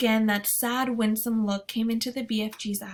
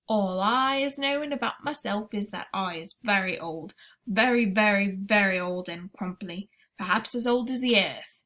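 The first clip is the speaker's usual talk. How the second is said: giant BFG voice; 4 dB louder than usual. Acted. BFG speaks in story.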